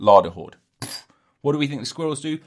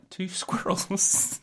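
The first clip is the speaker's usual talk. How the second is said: silly voice; 10 semitones higher, 4 dB quieter, much slower than usual. Pretend. Silly catchphrase voice.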